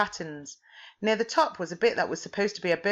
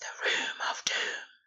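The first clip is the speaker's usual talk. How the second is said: eerie, hissing whispered voice. In a story, a voice speaks as she crosses the threshold, hissing. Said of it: "the voice hissed".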